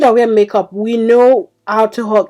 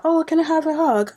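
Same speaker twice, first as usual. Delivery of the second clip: higher, softer, quick imitation of him asking for a hug; mock pleading boyfriend; 7 semitones higher, 4 dB quieter, faster than usual. Boyfriend asks her for a hug again, mock pleading. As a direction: lightly mimic a wheedling boyfriend. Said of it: "it was like".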